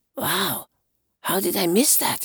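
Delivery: high, hushed whisper under the breath. Johann reacts after the abbot calls for silence: whispered. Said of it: "he whispered".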